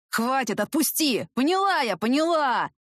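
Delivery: a hint of panic, caving in; frightened giving in. Caught mother begs the teacher to let go, mildly scared. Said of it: "Она пугается".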